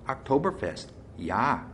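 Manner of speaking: put-on sing-song German brewmaster accent; lilting German accent. A narrator's reading. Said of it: "in a lilting accent".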